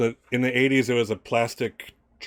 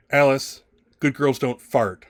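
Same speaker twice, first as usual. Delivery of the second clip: admonishing stepmother; 4 semitones higher, 5 dB louder, slower than usual. Acted.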